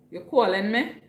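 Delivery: lilting Trini accent; Trinidadian accent. Shown as a demonstration. Streamer showing viewers how she answers a call, Trinidadian accent. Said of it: "I had a Trini accent".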